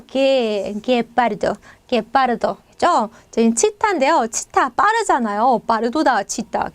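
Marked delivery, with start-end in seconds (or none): 0.1-2.5 게파르도 with hard g straight into e; Spanish pronunciation. Shown as a demonstration. Teacher answering how to say it, careful 게파르도. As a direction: model 게파르도 carefully, "ge-PAR-do". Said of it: "얘는 어떻게 발음하면 돼요?".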